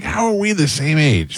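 high-pitched mock exasperation; exasperated disbelief. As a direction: repeat the baffled complaint, voice lifted high. Repeats own retold disbelief.

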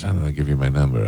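low, quick and half under the breath; offhand reply. Retold or imitated. Lovitz brushing off a request for his number, imitated low and offhand. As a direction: toss it off quietly and fast, imitating him.

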